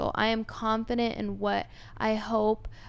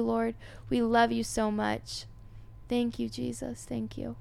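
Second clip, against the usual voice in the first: prayer. Real, not acted. Leads prayer for listeners.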